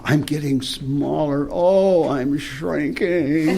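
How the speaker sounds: slow, strange narrator voice shrinking; a hint of a weird sci-fi narrator; shrinking smaller and smaller. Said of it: "the narrator had this strange voice".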